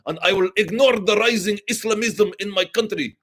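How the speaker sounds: lampoon the Shah as a spoiled party-loving ruler; mock decadent Shah. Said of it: "The Shah was a bit of a, like".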